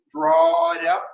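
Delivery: slow, elongated "draw" to model a long breath; drawn-out. Shown as a demonstration. Instructor asking for a longer breath, drawn out. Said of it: "This longer move needs a longer breath".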